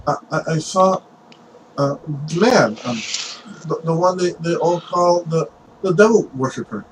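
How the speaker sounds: put-on halting, slightly high nervous boy; acted unease before an interrogator; nervous stammer. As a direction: stumble over the words, hesitating. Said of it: "he's very nervous when speaking to Stone".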